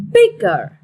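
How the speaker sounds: BIGger, stress on the first syllable. Shown as a demonstration. Teacher modelling the stress of "bigger". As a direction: say "bigger" as BIG-ger with the weight up front. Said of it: "straight on the first syllable".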